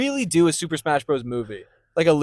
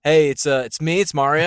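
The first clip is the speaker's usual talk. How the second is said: a hint of the Mario voice, lightly done; a light go at the plumber; Mario impression; 2 semitones lower than usual. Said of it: "Do Mario".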